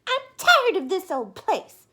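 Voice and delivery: high, loud, slow whine; Missus Bird complaining. Acted. Missus Bird complaining to her husband, high loud whine. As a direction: grumble about the old house.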